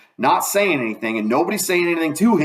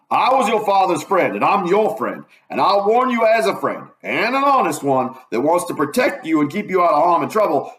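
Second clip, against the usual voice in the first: raised, urgent voice, higher pitch; forceful warning; 5 semitones higher than usual. Acted. Doctor warning the girls.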